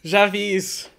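talking through loud laughter; real laughing. Real, not acted. Guest recognizes the Coca-Cola story, laughing. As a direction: get the words out while cracking up.

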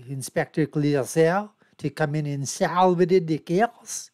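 slow, hammed-up French accent on the name; lightly put-on French accent, drawn out slowly; mock French accent. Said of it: "Is that a good French accent or what?".

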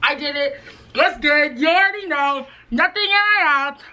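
excited. Real, not acted. Proud win, excited.

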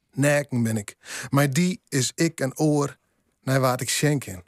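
measured Frisian poem reading with pauses between phrases; poetry recital in Frisian. Acted.

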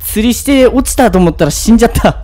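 loud, high and fast protest; excited outrage. Real, not acted. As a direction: cry out that it's unfair. Killed by monster fish, outraged.

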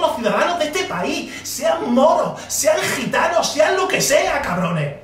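shouting out each group, rising; angry shouting. Real, not acted. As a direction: yell the list in fury. Furious rant at voters. (gritando con rabia)

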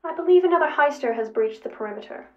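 sheepish robot. A narrator's reading. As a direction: announce the bad news as a robot. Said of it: "Sevens looked remarkably sheepish".

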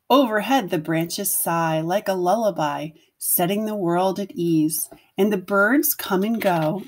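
put-on gentle read-aloud voice for young children; storybook narration. A narrator's reading. Teacher reading a picture book to her class, gentle storytelling. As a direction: tell it like a bedtime picture book.

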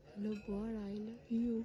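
hushed, close to the mic; soft murmur. Real, not acted. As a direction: murmur it gently into the statue. Speaking softly into statue's mouth.

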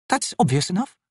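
high, impatient snap; snapped retort. A narrator's reading. Corporal dismisses what the trader says, snapping. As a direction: cut the trader short. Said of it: "Picker snapped".

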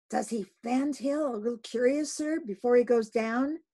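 deliberate. Acted. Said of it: "said the gay header deliberately".

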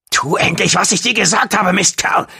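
high, tense angry yell; screaming. A narrator's reading. John threatens Gong with the staff, screaming. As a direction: yell the order with fury and impatience. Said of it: "schrie John".

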